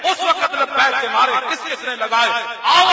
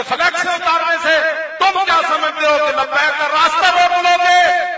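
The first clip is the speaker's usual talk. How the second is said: rising challenge; 4 semitones higher than usual. Real, not acted. Preacher challenging opponents, rising to a shout. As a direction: hurl the question at them.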